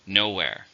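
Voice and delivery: "Nowhere" stressed on NO; stress on first syllable. Shown as a demonstration. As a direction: say "Nowhere" leaning on the first syllable, falling after. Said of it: "stress on the first".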